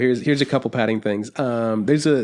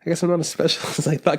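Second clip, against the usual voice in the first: laughing self-deprecation; 4 semitones higher than usual. Retold or imitated. Laughing at his own deflation.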